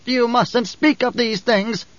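put-on high, slow old woman's reproach; hissing old woman. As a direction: hiss it slowly as a high-voiced old woman. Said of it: "the old woman hissed".

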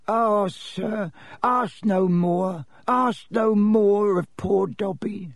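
high, slow, breathy pleading; fearful little servant, drawn-out words; frightened elf. A narrator's reading. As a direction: beg in a hushed high elf voice. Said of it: "stammered the elf".

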